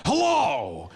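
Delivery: a loud, high mock Pacino greeting; loud imitation of a scary movie hello. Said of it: "Al Pacino comes out ... and goes".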